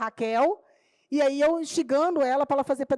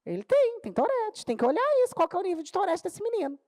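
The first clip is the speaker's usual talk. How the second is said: much higher, urgent telling; excited insistence; 7 semitones higher than usual. Retold or imitated. Teacher telling the office about Tourette, excited. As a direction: push it out high and urgent.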